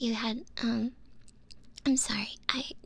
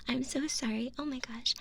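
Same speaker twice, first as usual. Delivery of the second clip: ordinary delivery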